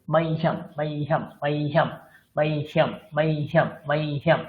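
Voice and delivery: মাইহাম said as mai-hi-yam, with a ya glide after h; Sanskrit pronunciation drill. Shown as a demonstration. Teacher modelling correct Sanskrit মাইহাম for the class. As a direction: repeat মাইহাম with the hi-ya sound, held m at the end. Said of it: "এইভাবে উচ্চারণ হয়".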